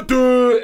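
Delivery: loud high mock impact grunt; imitated thud as he hits the ground; thud sound. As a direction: voice the hit on the concrete. Imitating the sound of his fall.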